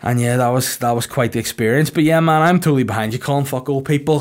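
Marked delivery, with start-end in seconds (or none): 1.9-4.2 mock rallying cheer.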